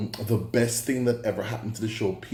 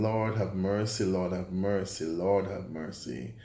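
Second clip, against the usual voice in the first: three weary pleas, each softer and lower, slowing at the end; exasperated lament; 4 semitones lower, 3 dB quieter than usual. Real, not acted. Reviewer despairing over the second season, fading lament. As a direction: sink into despair with each repeat.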